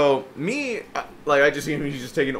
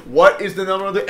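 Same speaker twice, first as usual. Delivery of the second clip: higher, louder, cut off; raised voice; 4 semitones higher, 6 dB louder than usual. Retold or imitated. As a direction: try to talk over someone yelling. Raising voice over shouting customer.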